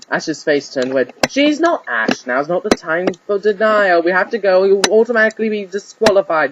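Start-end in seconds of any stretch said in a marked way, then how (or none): 1.3-6.5 a bit higher, pressing; lightly voiced urgent friend. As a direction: hurry him along without much change. Urging Ash to hurry.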